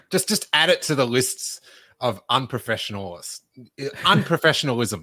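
talking around ice in mouth; mouth full. Real, not acted. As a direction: stumble through a mouthful of ice. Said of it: "now I've got ice in my mouth".

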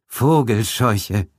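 slow, stuttering in fear; stammering shock. Acted. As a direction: stumble over the words. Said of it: "antwortete Gildridge". (stotternd vor Angst)

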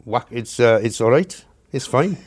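halting, hesitant try at a Sunderland accent; rough Sunderland accent, feeling for the words; attempted Sunderland accent. Shown as a demonstration. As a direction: have a tentative go at Sunderland speech. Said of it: "How's your Sunderland accent coming on?".

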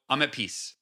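soft, low, breathy release after a deep breath; peaceful exhale. Shown as a demonstration. Guest showing the listener how to end the five minutes, softly at peace. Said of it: "take a deep breath and go".

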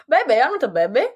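put-on high whiny little-girl voice; childish baby voice. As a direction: pout like a little kid. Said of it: "This is our mood".

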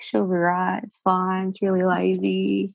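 lightly exaggerated lazy Australian accent; Australian accent with loose, barely used enunciators. Shown as a demonstration. Coach showing how lazy Australian speech is, in a relaxed Australian accent. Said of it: "Australian positioning is really lazy".

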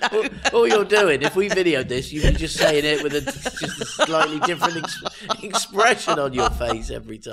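talking through laughter; laughing. Real, not acted. Host mocking co-host's accents, laughing. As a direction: tease them while cracking up.

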